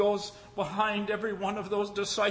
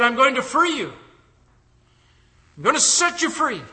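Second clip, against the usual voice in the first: Lincoln; 7 semitones higher, 6 dB louder than usual. Acted. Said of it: "And Lincoln said".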